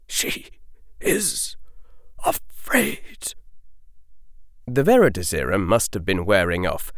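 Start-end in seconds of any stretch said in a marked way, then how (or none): 0.1-3.3 broken, fading to a whisper; voice breaking. A narrator's reading. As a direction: grief choking the words. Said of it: "the old wizard's voice broke".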